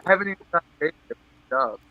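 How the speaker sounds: broken-up choppy call audio; call dropping out. Real, not acted. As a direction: voice cutting out on a call. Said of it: "you're still, like, cutting out".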